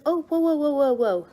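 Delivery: high, loud string of whoas, imitating the doctor; startled, halting whoa. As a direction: play a doctor taken aback, heading off panic. Doctor halting a tearful patient.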